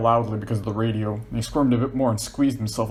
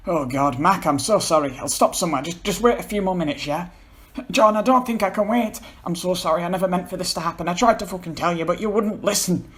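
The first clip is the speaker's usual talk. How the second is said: tearful; 8 semitones higher, 3 dB louder than usual. Acted. Paul crying, apologizing.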